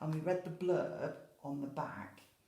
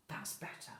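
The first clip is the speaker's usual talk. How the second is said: relieved sigh; 5 dB quieter than usual. Acted. Lady relieved in story.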